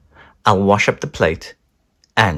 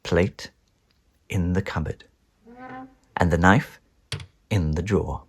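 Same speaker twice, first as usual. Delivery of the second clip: softer, creeping whisper; hushed; 3 semitones lower, 7 dB quieter than usual. Acted. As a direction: tiptoe in your voice. Creeping back to bed.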